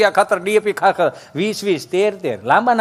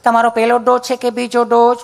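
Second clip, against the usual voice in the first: nurse asking politely; 3 semitones higher than usual. Retold or imitated. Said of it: "nurse બેન ... એમ કીધું".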